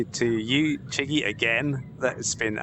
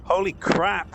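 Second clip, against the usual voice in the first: sharp high burst of real shock; gasping at something sudden; startled exclamation; 8 semitones higher, slower than usual. Real, not acted. Player caught off guard in his headset, startled high cry. Startled during tense VR flight.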